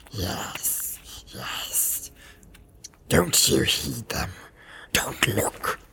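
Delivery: slow, whispered creature warning; Gollum. A narrator's reading. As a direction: draw the words out in a soft, eerie whisper. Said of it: "he whispered".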